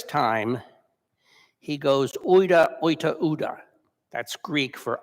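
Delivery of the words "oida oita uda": retold Peter snapping his denial; more annoyed. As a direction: brush her off with rising irritation. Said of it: "a little more annoyed than he was".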